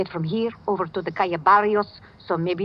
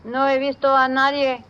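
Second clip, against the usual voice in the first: urgent bluff; 6 semitones higher than usual. Acted. Midnight bluffs the Spanish police.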